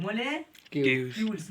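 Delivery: मॉलिक्यूल्स stretched out slowly, syllable by syllable; slow repeat for learner. Shown as a demonstration. Tutor repeating the word for a child, slowly stretched. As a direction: drag the word out so the child can copy it. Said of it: "Kochi बोला गया?".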